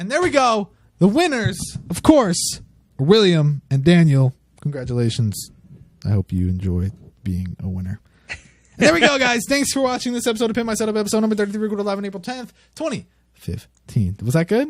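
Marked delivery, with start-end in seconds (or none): 9.5-14.2 rattled off very fast, pitched up. Host signing off the episode to viewers, said very fast. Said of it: "you you say that really fast".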